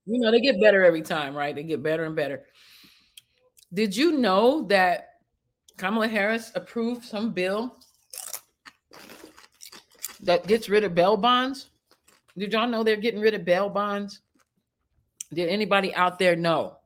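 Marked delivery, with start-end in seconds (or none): 3.7-14.2 Kamala Harris impression. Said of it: "in the character as Kamala Harris".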